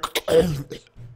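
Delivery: choked cough, mimicking the victim; imitated dying choke. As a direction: cough out a mock death rattle. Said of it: "and you hear".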